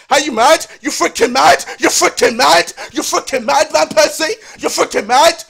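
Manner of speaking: loud, repeated incredulous challenge; angry. Real, not acted. Fan confronting Van Persie for leaving, angry. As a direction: fire the question at him loudly.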